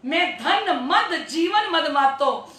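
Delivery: slow singsong scripture verse; chant-like recital with stretched words; verse recitation. Real, not acted.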